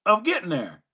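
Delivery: playfully enraptured storytelling voice; mock rapture. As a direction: draw out the enjoyment, pitched high. Acting out the enraptured listener.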